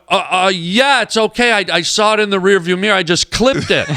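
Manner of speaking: thrown, hurriedly smoothing it over; off his game. Retold or imitated. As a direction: imitate a flustered reassurance. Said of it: "now I'm off my game".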